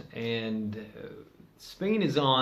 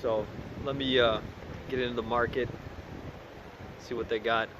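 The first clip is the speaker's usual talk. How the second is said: muffled behind a face mask; talking through face mask. Real, not acted. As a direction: speak through a cloth mask. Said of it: "let's try this with the mask on".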